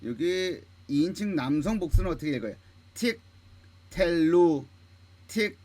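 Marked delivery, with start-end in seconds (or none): 2.9-5.6 틱, pause, then a long drawn 텔루; model reading. Shown as a demonstration. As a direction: split it slowly into 틱 and 텔루. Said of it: "이렇게 읽습니다". (틱, 텔루 끊어서 천천히 시범 읽기)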